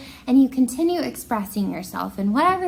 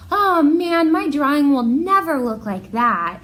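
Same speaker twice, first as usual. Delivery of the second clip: whiny student; 4 semitones higher, 5 dB louder than usual. Retold or imitated. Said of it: "students ... saying something like".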